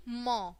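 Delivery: म as "muh", consonant plus short vowel; letter sound demo. Shown as a demonstration. Teacher showing the sound of M, letter sound demo. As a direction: sound out म on its own. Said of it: "एम की sound आएगी".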